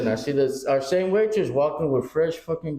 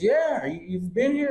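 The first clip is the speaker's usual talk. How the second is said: imitating the waitress; 7 semitones higher than usual. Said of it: "She goes".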